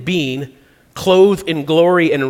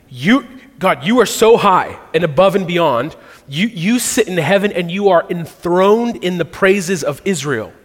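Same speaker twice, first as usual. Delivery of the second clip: higher, emphatic praise addressed to God; impassioned preacher voicing a prayer; fervent affirmation; 4 semitones higher, 3 dB louder than usual. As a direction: proclaim it up to heaven. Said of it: "he affirms the holiness of God".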